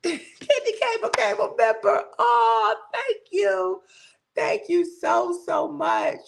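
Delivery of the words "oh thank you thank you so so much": choked up thanks. Real, not acted. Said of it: "Y'all messing with my emotions".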